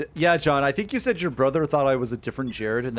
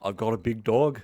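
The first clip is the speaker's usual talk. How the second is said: Ian impression. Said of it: "That's exactly it".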